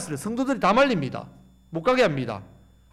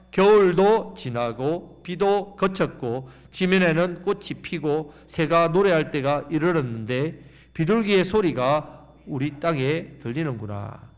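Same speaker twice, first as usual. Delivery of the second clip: slow, drawn-out reading; scripture reading; slower than usual. Acted. Preacher leading the church in reading, slow and drawn out. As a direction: read it slowly, swelling at the end. Congregation reads Song of Songs.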